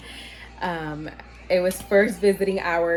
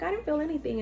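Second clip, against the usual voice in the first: imitated husband; 8 semitones higher, 5 dB quieter, faster than usual. Husband's denial acted out again.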